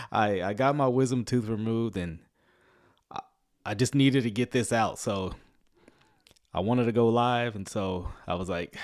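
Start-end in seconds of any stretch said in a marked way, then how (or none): 0.1-7.5 talking through a swollen jaw; swollen face. Real, not acted. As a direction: speak as if just after tooth surgery. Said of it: "half of my face is swollen".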